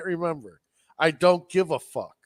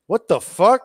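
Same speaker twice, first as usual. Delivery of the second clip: higher, louder incredulous quote; 5 semitones higher, 7 dB louder than usual. Retold or imitated. Podcaster imitating a fighter baffled by his walkout music, incredulous. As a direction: mimic a baffled fighter's reaction.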